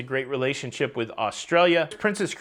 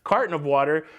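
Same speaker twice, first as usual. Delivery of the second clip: carton of water, rising, mock disbelief; scoffing repeat. Real, not acted. Vlogger mocking a cruise line's carton water, scoffing. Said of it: "I think you know who".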